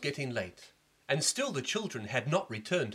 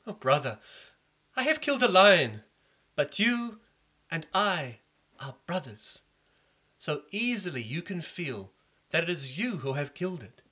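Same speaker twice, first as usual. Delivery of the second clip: consoling brother; 5 semitones higher, 5 dB louder than usual. Acted. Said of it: "Chandragupta said to him".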